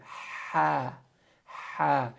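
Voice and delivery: ha pressed from the middle of the throat; ha with a strong pharyngeal h. Shown as a demonstration. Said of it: "try to say that".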